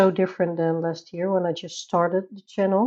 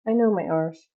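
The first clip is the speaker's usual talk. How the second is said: laughing R's. Shown as a demonstration. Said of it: "I'm Dutch".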